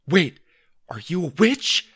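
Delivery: wary, high-pitched question; alarmed suspicion. A narrator's reading. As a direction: accuse in dawning alarm. Panicked boy suspects sister.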